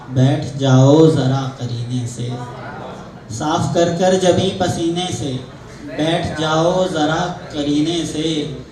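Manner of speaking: measured Urdu mushaira recital with drawn-out line endings; poetic, metered delivery; ghazal recitation. Acted. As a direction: recite the couplet to an audience, phrase by phrase. Poet recites a second ghazal.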